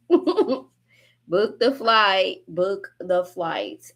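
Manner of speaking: Book the flight stretched out through laughter; slow laughing repeat. Real, not acted.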